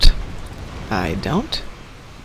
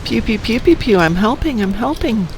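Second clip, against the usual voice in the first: higher-pitched sing-song pew-pew noises; playful mock helper; 5 semitones higher than usual. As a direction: pretend to help with little toy laser shots. Playfully imitating her own ship's shots.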